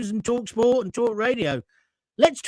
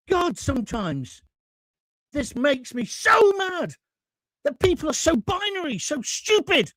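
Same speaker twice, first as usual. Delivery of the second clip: irritated; 4 semitones higher than usual. Real, not acted. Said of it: "I just got ratty a moment ago".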